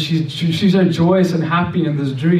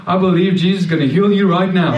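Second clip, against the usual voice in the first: laughing; 2 semitones higher than usual. Real, not acted. Laughs telling his bold claim.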